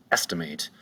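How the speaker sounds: "estimate" with the beat on ES; ES-ti-mate, accent falling on the opening syllable; stress on first syllable. Shown as a demonstration. Teacher demonstrating the accent, "estimate" stressed on first syllable. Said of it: "accent is gonna be over the first syllable".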